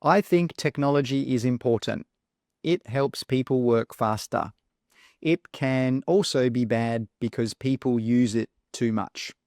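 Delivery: a bit flat, sentence by sentence; mechanical reading. Shown as a demonstration. Teacher reads sentences that don't sound natural, mildly mechanical. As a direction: read it out evenly with no fillers. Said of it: "sound a bit mechanical".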